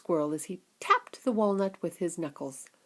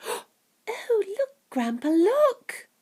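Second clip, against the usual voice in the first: put-on high excited boy crying out; 3 dB louder, much slower than usual. Charlie to Grandpa at the glass, excited high cry. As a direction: point it out to Grandpa, thrilled. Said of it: "cried Charlie".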